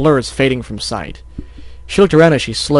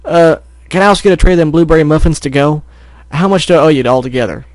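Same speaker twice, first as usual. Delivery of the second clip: raised, hurried customer voice; talking fast; 4 semitones higher, 4 dB louder than usual. Acted. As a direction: blurt out an order in a hurry. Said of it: "found herself talking fast".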